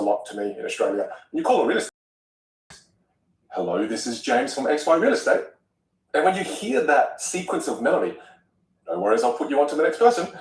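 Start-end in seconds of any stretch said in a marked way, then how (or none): 3.5-5.4 lightly sing-song phone greeting; sing-song receptionist. Shown as a demonstration. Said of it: "don't use that sing-song voice". 8.9-10.3 sing-song voice. Retold or imitated. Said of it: "You've got a sing-song voice".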